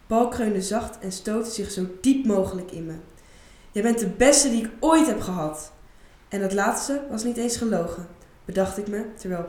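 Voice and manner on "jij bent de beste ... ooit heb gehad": passionate praise. Acted. Isa tells client he's best.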